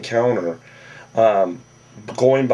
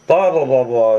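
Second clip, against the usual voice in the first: dismissive blah; 2 semitones higher, 4 dB louder than usual. Acted. Dismissive summary of her talk.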